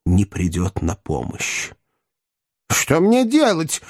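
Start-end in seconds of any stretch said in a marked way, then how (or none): 2.7-3.8 high, drawn-out helpless cry. A narrator's reading. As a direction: call for help in a high, slow voice. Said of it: "крикнул мистер Уинкли". (высокий протяжный крик)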